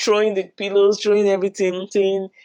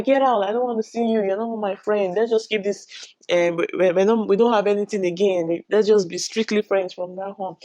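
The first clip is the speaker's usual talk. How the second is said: higher-pitched dismissal, retold; mock angry; 4 semitones higher than usual. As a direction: send him away in imitated anger. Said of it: "she was really angry".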